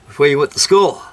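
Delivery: a hint of a teacher quizzing the class; imitating a teacher's morning question; teacher addressing class. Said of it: "he always asked us in the morning".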